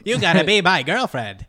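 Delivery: high, loud comic suitor on the edge of laughter; goofy character voice, pushed high and loud; Grant Morrison. Acted. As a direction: make a hammed-up girlfriend demand. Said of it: "that's gonna be his voice".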